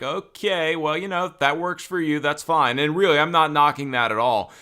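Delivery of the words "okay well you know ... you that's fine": polite inner reaction. Retold or imitated. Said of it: "I'm just sort of like".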